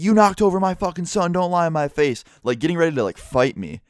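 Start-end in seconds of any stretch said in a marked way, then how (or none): 0.0-2.2 high-pitched mock outrage; much higher, heated retold accusation; imitated furious yelling. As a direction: imitate a dad itching for a fight. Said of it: "yelling and screaming at people".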